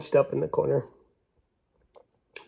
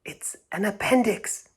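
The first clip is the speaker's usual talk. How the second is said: alarmed; 9 semitones higher than usual. A narrator's reading. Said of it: "he said".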